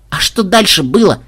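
high, eager question; curious. A narrator's reading. Granddaughter asks what happened next, curious. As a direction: prompt the storyteller with interest. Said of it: "с любопытством спросила внучка".

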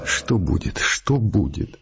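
anguished mutter. Acted. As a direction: mutter it in despair, drawing it out. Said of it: "с тоской пробормотал".

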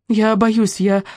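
first "боюсь" lifted up and urgent; frightened plea. A narrator's reading. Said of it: "дрогнувшим голосом". (испуганно, на высокой ноте)

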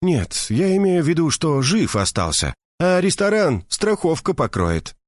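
high, indignant gossiping woman; indignant Mercedes. A narrator's reading. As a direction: pour out the outrage to a friend. Mercedes corrects. (возмущённая Мерседес жалуется подруге)

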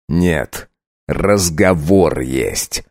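low, very slow; cold refusal. Acted. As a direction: count to servant, cold and slow. Count cold.

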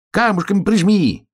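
high-pitched hare squeal; excited little hare, voice way up. A narrator's reading. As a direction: squeal the order urgently. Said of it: "верещал заяц".

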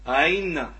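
أين with second hamza softened toward a y; eased second hamza. Shown as a demonstration. Teacher modelling tashil with kasra, أين with hamza near ya. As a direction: let the second hamza of أين slide halfway into ya. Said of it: "هو التسهيل".

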